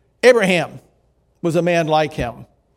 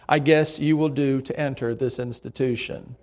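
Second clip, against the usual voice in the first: lower, softer understated quote; understated, softly lowered remark; quiet remark; 4 semitones lower, 6 dB quieter than usual. A narrator's reading. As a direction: narrate her words with quiet reserve. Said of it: "she quietly remarked".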